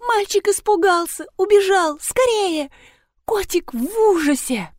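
high, rushed panic; urgent alarm about the cat; panicked. A narrator's reading. Rina panics that the cat ran away, high and urgent.

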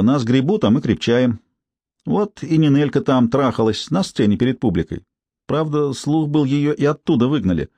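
lightly voiced brassy street woman; feral wasteland raider. Tsypka gossiping.

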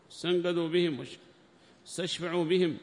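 ordinary talk

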